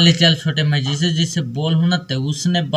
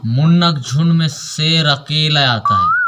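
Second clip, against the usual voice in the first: filmi dialogue. Shown as a demonstration. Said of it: "चल बोलना है".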